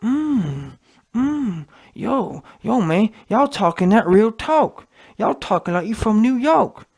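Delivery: mock a gushing interviewer who hums along; a hint of an eager, cooing fan; fruity interviewer impression. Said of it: "Listen to how fruity the interviewer was".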